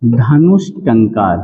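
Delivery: धनुष टंकार said slowly, with "sh" in धनुष before टंकार; धीरे-धीरे समझाते हुए; slow demonstration. Shown as a demonstration. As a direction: spell out धनुष टंकार word by word. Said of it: "तो ये हो जाएगा आपका".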